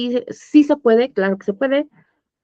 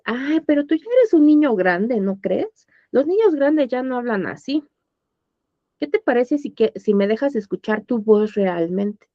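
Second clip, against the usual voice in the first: higher, gentle coaxing; coaxing teacher; 3 semitones higher than usual. Retold or imitated. Teacher gently coaxing a child to use a real voice. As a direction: coax the child kindly. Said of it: "normalmente es".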